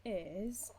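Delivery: slow, breathy whisper; hushed, slowed-down whisper as a dramatic tease; sudden whisper. Real, not acted. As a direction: lean in and whisper it slowly like a secret.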